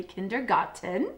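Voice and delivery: playful attempt at a German accent. Shown as a demonstration. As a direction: say "kindergarten" as if in German. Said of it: "My best German accent".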